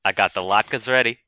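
lightly voiced Jewish dad; hint of a Yiddish father. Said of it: "your Jewish dad voice".

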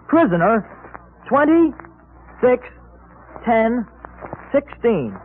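slow, deliberate dictation with long pauses. Acted. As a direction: read each number slowly for kids. Dictating secret code slowly.

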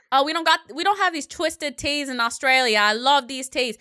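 a lightly put-on Australian accent; half-hearted Australian impression; bad Australian accent. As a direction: mimic an Australian singer, badly. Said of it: "That's a really bad accent".

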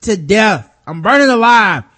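high, loud desperate yell; burning scream. Retold or imitated. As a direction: yell in pain while burning. S0 acts the burning caller.

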